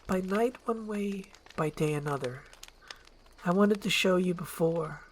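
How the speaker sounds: lightly voiced princess, hushed; Fiona confessing. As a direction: admit it gently.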